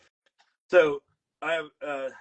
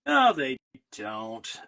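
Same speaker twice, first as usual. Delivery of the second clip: indignant denial; 2 semitones higher, 3 dB louder, much slower than usual. Retold or imitated. Retold denial about Minnesota accent.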